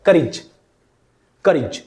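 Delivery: करेज as a low KUH-rij; low-pitched model of करेज, ending in short rij. Shown as a demonstration. Teacher repeating for students, करेज as kuh-rij. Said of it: "ई की मात्रा लग जाएगी".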